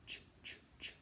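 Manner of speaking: ch, ch, ch as bare voiceless CH sounds; soft C. Shown as a demonstration. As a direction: puff out ch, ch, ch with no vowel. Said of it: "instead of soft".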